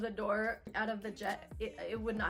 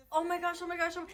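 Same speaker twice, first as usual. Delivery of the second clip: mock freefall panic; 7 semitones higher, 7 dB louder, faster than usual.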